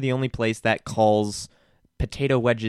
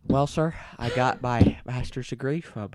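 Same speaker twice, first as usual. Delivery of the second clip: a hint of Clarice Starling, southern accent; Jodie Foster impression. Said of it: "I could do a Jodie Foster thing".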